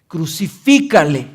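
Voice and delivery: loud crowd call for crucifixion; shouted demand. A narrator's reading. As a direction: let the crowd's demand swell on the repeat. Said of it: "gritaron diciendo".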